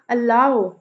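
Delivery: अलाउ with a light अ and strong, long लाउ; iambic stress. Shown as a demonstration. Teacher gives iambic example, लाउ stressed in अलाउ. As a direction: lean on the second syllable of अलाउ. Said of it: "लाउ पे stress".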